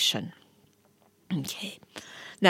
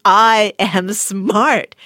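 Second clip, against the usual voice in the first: confident affirmation; 5 dB louder, slower than usual. Shown as a demonstration. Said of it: "you are saying".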